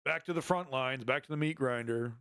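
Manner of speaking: a hint of a resigned, indifferent conscript; bored Russian soldier. Streamer mocks returning Russian soldiers, lightly voiced resignation. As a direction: shrug it off like going back is routine. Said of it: "Russian soldiers over here".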